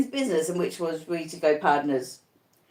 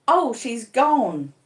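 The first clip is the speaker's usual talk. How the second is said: 1 quiet relief; 4 semitones higher, much slower than usual. A narrator's reading. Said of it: "by and by he quieted".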